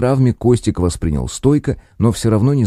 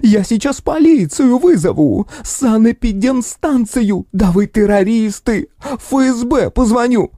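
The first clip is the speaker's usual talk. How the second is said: much higher, slow, shrieking rage; enraged roar; 14 semitones higher, slower than usual. Acted. Furious aunt threatens the office with police, raging shriek. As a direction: bellow threats like an enraged hippo. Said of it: "рёв разъярённого бегемота".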